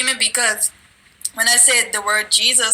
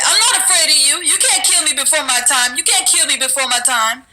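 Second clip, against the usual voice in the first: raised, firm defiance; defiant; 4 semitones higher than usual. Retold or imitated. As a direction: stand up to the demon. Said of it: "I got back in his face".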